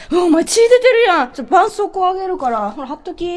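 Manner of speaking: Kansai dialect demo. Shown as a demonstration. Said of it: "こうなりますね".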